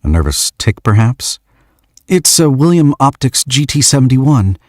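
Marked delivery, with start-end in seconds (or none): 2.1-4.6 put-on lightly higher young man's voice; shy young man. George asks the stranger why she came, lightly shy. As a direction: ask with awkward shyness.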